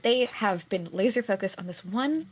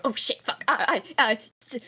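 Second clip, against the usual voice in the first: startled panic; 4 semitones higher than usual. Acted. Dropped barking thing, panics.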